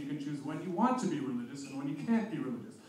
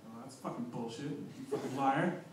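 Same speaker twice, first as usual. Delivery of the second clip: scoffing accusation; 4 semitones lower, 6 dB quieter than usual. Pretend.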